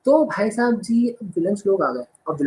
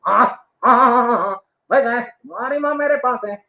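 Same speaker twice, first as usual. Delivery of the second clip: lightly voiced Akshay Kumar; 5 semitones higher than usual. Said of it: "Akshay Kumar बोले".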